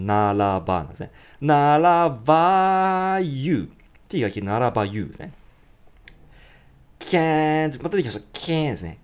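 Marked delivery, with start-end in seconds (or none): 1.4-3.7 "ならばyou" sung slowly, flapped R; slow American flap. Shown as a demonstration. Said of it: "TがRの音に変わるような".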